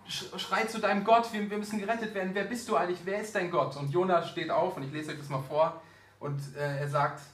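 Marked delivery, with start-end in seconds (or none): 0.1-3.8 drängend, aufgeregt. Acted. Seeleute bedrängen Jona in Seenot.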